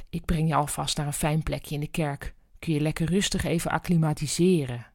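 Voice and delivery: calm her down gently; reassuring. Acted. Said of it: "als emotionele nood".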